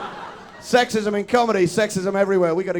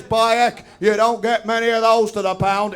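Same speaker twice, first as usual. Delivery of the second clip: northern bloke. Retold or imitated. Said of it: "he's an amicable northern stereotype".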